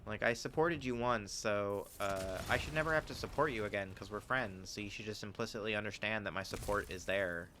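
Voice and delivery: lightly put-on Valley Girl voice; a hint of a Valley Girl accent. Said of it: "I put a Valley Girl voice on".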